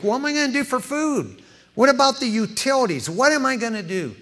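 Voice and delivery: rising, pleading voice of a broke man; mild worried churchgoer. Acted. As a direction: play a man just fired, climbing in panic. Voicing worried congregant, desperate.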